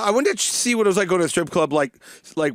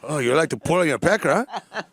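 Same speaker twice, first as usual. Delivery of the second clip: put-on Spanish accent. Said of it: "Spanish accent like Brian does".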